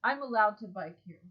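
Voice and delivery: calm, even statement of rights; matter-of-fact, unruffled; calmly. Retold or imitated. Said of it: "I just did it very calmly".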